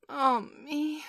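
high, wailing moan; lament.

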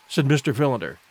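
ordinary delivery

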